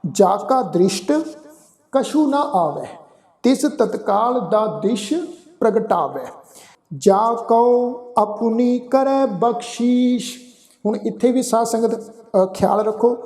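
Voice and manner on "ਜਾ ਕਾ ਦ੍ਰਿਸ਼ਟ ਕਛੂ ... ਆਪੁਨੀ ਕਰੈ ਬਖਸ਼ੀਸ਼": slow, measured Gurbani reading; scripture recitation. Shown as a demonstration. Teacher recites verse for congregation, slow sustained recitation. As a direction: draw out the line endings, pausing between phrases.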